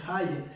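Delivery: "Haya" como palabra hebrea; pronunciación hebrea. Shown as a demonstration. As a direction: muestra cómo suena "Haya" en hebreo. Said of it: "creo que se pronuncia correctamente". ("Haya" con pronunciación hebrea tentativa)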